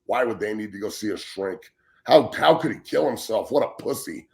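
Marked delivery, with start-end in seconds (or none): 2.0-4.3 mocking sneer. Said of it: "That's what this motherfucker thinks".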